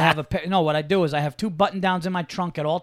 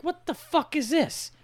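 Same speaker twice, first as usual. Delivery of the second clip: high-pitched indignant complaint; mock-outraged inner rant; retold exasperation; 6 semitones higher than usual. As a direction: act out being outraged at the intrusion. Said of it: "And I'm just like".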